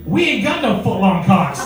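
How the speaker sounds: panicked British guys. Acted. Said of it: "these British guys are going".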